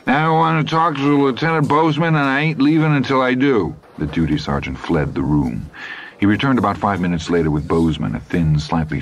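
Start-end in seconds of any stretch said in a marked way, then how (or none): 0.1-3.7 high, insistent, dug-in demand; stubborn Hap. A narrator's reading. Hap refusing to leave until he sees Bozeman, high and insistent. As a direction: refuse to budge.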